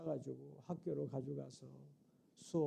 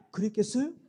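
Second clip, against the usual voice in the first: laughing question; 4 semitones higher, 8 dB louder than usual. Real, not acted. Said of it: "rhetorical question repeated".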